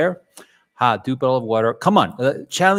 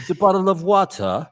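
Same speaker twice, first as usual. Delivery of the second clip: put-on British accent; 5 semitones higher, 4 dB louder than usual. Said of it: "Do bottle of water".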